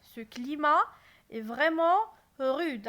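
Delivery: loud, surprised rise on climat; astonished. Shown as a demonstration. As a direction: marvel at the harsh climate. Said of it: "j'exprime mon étonnement".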